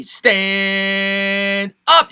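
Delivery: one long, held announcer-like note; drawn-out catchphrase. Pretend. Host greets Rudy in chat with a drawn-out catchphrase. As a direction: stretch "Stand" out long before "up".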